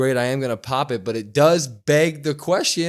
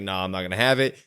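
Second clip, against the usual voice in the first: lower, softer tough guy; 7 semitones lower, 3 dB quieter, faster than usual. Retold or imitated. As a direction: drop low and dismissive. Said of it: "Damian's like".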